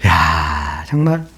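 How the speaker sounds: ordinary talk, nothing marked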